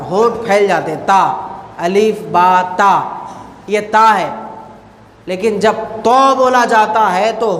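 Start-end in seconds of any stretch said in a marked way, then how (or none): 1.1-3.0 تا with spread lips, said slowly; slow letter demo. Shown as a demonstration. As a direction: stretch تا with a wide mouth. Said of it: "منہ پھیل جاتا ہے".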